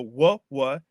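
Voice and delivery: "w, w" as separate "wuh" syllables; isolated W sound. Shown as a demonstration. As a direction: sound out each alliterating W. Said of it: "we get w".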